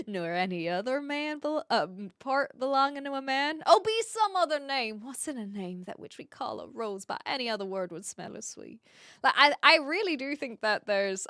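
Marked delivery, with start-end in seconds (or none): 0.1-8.8 loosely attempted Southern accent. Shown as a demonstration. Streamer finishing the balcony speech for viewers, imperfect Southern accent. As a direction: run through Juliet's speech in a light Southern accent. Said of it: "a very rushed Southern accent".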